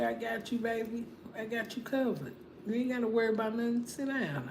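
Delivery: soft, doting man's reassurance; softly voicing the man she deserves; tender suitor. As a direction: coax her gently like a caring man. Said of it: "somebody that's gonna come in and be like".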